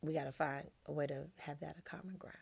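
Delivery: soft unvoiced whisper. Real, not acted. Wife softly advising friend in a whisper. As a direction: confide it softly.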